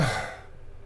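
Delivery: short unvoiced sigh; Leendert's habit. Shown as a demonstration. Repeating a friend's habit, short sigh. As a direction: puff out a demonstrative sigh. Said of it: "That's a Leendert".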